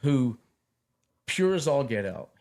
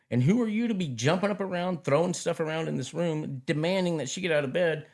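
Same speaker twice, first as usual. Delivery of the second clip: indignant self-rebuke; 6 semitones higher than usual. Retold or imitated. Scolding his past self inwardly.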